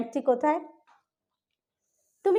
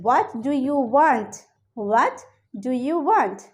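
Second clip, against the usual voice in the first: slow teaching read; much slower than usual. Shown as a demonstration. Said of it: "এভাবে জিজ্ঞেস করতে পারি".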